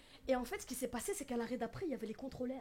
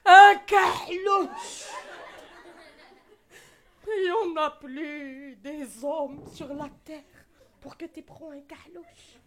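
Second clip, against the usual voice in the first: slow, loud scandalised shout; furious mum with a bled accent; outraged Maghrebi mother; 13 dB louder, much slower than usual. Retold or imitated. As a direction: play the horrified mother. Mother outraged at black fiancé.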